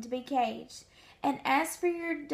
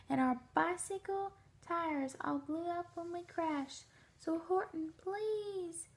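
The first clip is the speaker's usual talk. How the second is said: pleading tiny mayor; 3 semitones higher, 7 dB quieter than usual. A narrator's reading. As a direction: beg like a tiny far-off mayor. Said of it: "pleaded the voice of the mayor's".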